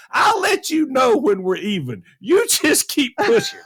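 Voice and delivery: high-pitched, mock-outraged comeback; indignant retort. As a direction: raise the pitch in playful indignation. Acted indignant retort to travel companion.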